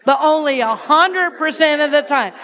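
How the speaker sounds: a hundred percent of the time through a laugh; amused call; laughing repeat. Shown as a demonstration. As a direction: giggle while leading them. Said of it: "Say that".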